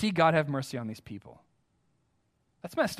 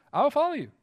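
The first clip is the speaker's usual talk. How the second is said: much higher and a bit louder, stress on follow; emphatic promise; 9 semitones higher, 3 dB louder, faster than usual. Retold or imitated. Preacher repeating his vow to God, now fervent and rising. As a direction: lift it up with conviction.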